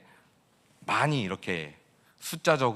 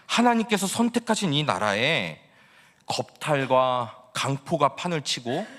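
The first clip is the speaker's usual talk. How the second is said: indignant complaint; 2 semitones higher than usual. Acted. Habakkuk accusing God of allowing injustice, indignant protest. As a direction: press God with a bitter, demanding question. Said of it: "하박국이 바로 하나님께 따지면서".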